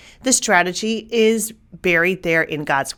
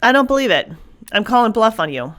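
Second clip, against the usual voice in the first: scoffing cave brain; 3 semitones higher, faster than usual. Retold or imitated. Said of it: "That's saying".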